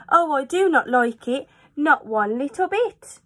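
high, anxious fish voice protesting; a worried little fish crying no; fretful fish. Acted. Fish in the pot warning the children, high and anxious. Fish objects to flying kites.

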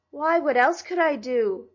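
upset, self-defending question; much disturbed. A narrator's reading. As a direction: protest helplessly, pitch lifted. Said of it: "much disturbed".

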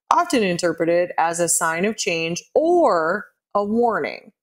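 lightly read-out quote; reading aloud. Shown as a demonstration. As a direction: read the Quora answer aloud. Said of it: "this is from Quora".

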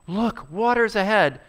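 a crowd sees water ahead; excited shout. Acted. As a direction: point it out with sudden hope. People spot water, voiced.

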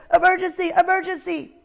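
a tiny owl pretending there's an emergency; little owl's alarm. Ozzie's cry.

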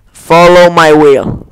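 slow, solemn incantation; casting a spell. Pretend. The streamer casts a spell in the game, slow and solemn. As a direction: intone the spell slowly.

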